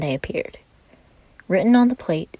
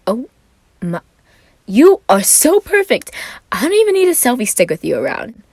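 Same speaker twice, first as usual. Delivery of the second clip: squealing excitement; 8 semitones higher, 8 dB louder than usual. Acted. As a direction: squeal over the photo, much higher. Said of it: "began to squeal slightly in excitement".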